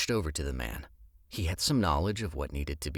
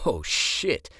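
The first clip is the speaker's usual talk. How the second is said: alarmed; 6 semitones higher, 4 dB louder than usual. Acted. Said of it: "Alan said".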